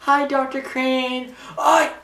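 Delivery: high, slow, sing-song greeting; bubbly cartoon girl calling hello; sweet squeaky hello; chirpy Harley Quinn. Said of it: "you hear Harley".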